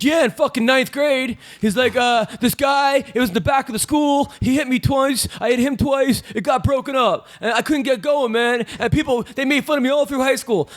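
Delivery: high-pitched impression of a fighter; Nate. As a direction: tell it in a put-on high voice, words stretched. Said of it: "I asked Nate".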